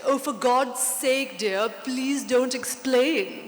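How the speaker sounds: slow, drawn-out posh English accent, lightly imitated; a mock posh London editor pleading in posh English. London editor begging the author not to explain, posh English accent. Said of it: "this very posh accent".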